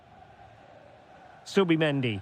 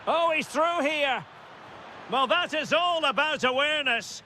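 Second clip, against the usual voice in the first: excited commentary; 6 semitones higher than usual. Real, not acted. Commentator sees a sudden chance.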